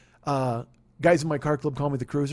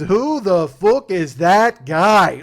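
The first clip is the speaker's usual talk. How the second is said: McGregor put-down; 3 semitones higher, 9 dB louder, much slower than usual. Retold or imitated. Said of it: "he goes".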